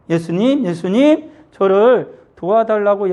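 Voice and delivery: mild pleading call for help; imitated crying out. Blind beggar calls Jesus for help, imitated loud plea. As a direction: call out to Jesus, rising in pitch and drawing out the plea. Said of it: "크게 소리를 질렀어요".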